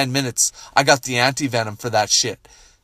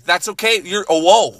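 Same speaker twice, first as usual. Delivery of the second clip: startled calming; 7 semitones higher than usual. Real, not acted. Calming his dog that got too worked up, startled. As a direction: try to settle an overexcited dog.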